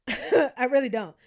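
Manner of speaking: laughing. Real, not acted. Vlogger insisting she has no money, laughing. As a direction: laugh through the denial.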